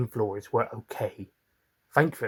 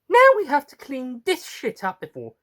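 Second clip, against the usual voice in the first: lightly high, louder grumble; Tina grumbling; 6 dB louder than usual. Acted. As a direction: moan about cleaning up. Tina complains about the mess.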